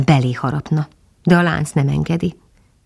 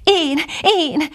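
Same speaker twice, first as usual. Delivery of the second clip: high excited call of Me, me; loud eager cry; 12 semitones higher than usual. A narrator's reading. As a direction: shout it out with joy. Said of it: "kiáltotta Füstös olyan harsányan".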